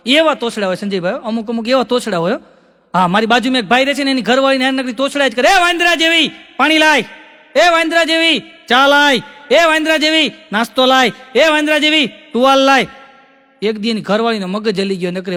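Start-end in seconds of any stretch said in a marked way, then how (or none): 5.5-12.9 loud, higher rude barking of orders; rude husband yelling. Retold or imitated. (પત્ની પર તોછડાઈથી બૂમો પાડતો પતિ)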